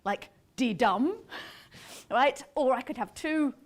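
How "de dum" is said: slow "de-dum", weight landing on "dum"; light "de", firm drawn-out "dum"; unstressed then stressed. Shown as a demonstration. Lecturer illustrating a two-syllable option, "de-dum" stressed on "dum". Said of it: "unstressed and then a stressed".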